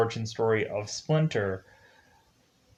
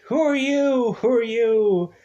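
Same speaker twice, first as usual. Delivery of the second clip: high, loud frightened cry; panicked yelling; 11 semitones higher, 5 dB louder than usual. Retold or imitated. April scared of the strangers, yelling high and loud. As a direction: demand it in terror, twice.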